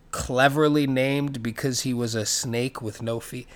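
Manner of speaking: slow, deadpan sarcasm; sarcastic. Real, not acted. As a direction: draw it out with mock admiration. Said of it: "And I'm being sarcastic".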